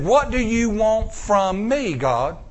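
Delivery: slow, humble plea to God; humble prayer. Retold or imitated. Preacher humbly asking God what he wants. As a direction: ask it slowly and simply. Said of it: "I said".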